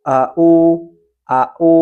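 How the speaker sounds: Au with a plain glottal hamzah in place of ain; wrong ain as hamzah. Shown as a demonstration. Teacher showing the wrong ain read as hamzah. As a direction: say Au with a light catch, no throat squeeze. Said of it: "Yang salah adalah ain dibaca hamzah".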